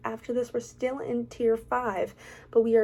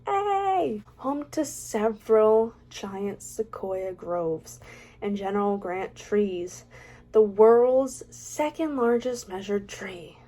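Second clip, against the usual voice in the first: odd put-on voice. Vlogger reading park facts in a silly put-on voice. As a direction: ham up the park list in a silly voice. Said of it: "I don't know why I'm talking like this".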